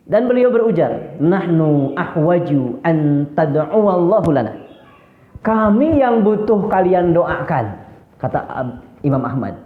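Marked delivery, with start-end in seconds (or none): 1.2-7.8 slow, measured retold scolding; polite words in a mildly angry tone; mock angry intonation. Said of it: "tapi intonasinya marah". (nada marah yang ditirukan, pelan)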